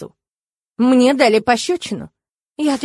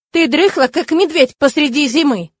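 loud, higher scolding shout; snapping shout; 5 semitones higher, 6 dB louder than usual. A narrator's reading. Kurona shouting at the novice who overslept, scolding. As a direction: bark at the lazy girl. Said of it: "прикрикнула на меня Курона".

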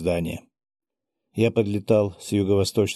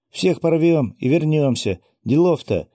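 higher, louder excited cheer; rally everyone with bravado; excited shout; 7 semitones higher, 4 dB louder than usual. Acted. Fairy cheering.

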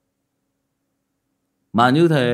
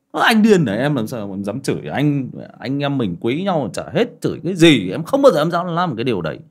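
indignant denial. Acted. Acting the drinker denying everything.

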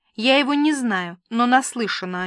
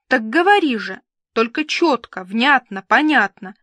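louder, irritated, each word pressed; annoyed demand; 2 semitones higher, 5 dB louder than usual. Acted. Vilka crossly ordering her friend to speak clearly, annoyed demand. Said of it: "рассердилась я".

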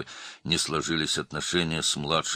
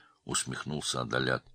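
ordinary delivery, nothing marked

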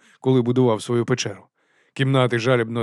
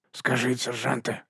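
softer whispered aside; 6 dB quieter than usual. A narrator's reading. Нобі до сержанта, пошепки. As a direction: lean in and whisper. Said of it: "шепотів Нобі".

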